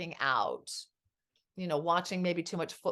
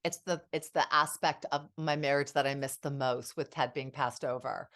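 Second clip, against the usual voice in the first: emotional; 5 semitones lower than usual. Real, not acted. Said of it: "I'm gonna get a little emotional".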